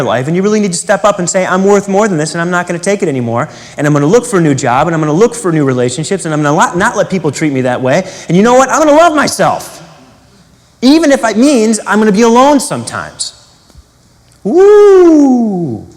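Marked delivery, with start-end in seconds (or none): 1.4-13.3 building declaration. Pretend. Imagined self-affirmation, building up. 14.4-15.9 loud high-pitched whoop of triumph; joyful cheer at full volume. Acted. Cheer after the affirmation.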